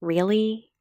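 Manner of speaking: a mild puzzled hurt question; lightly voiced letdown; disappointed, confused. Cookie hurt by Eric's reply, mildly disappointed. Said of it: "disappointed and confused".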